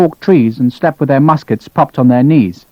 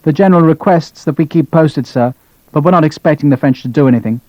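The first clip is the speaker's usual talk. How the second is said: bored; 3 semitones higher than usual. Acted. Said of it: "sounded bored".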